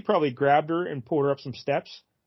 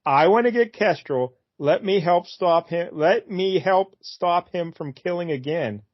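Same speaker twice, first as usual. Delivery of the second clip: dramatic Dove voice; 3 semitones higher than usual. Pretend. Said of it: "That could have been better".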